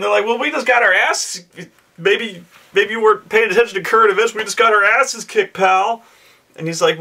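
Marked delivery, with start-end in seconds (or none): 0.3-6.0 high, fast snarky jab; sarcastic players. Retold or imitated. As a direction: lay the sarcasm on high and quick. Players sarcastically scold newcomer.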